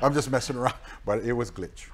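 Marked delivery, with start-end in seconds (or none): 0.0-0.7 laughing it off, louder and higher; chuckling through a joke about zombie relatives. Real, not acted. Guest laughs off his dark joke, laughing loudly. Joking about family coming back.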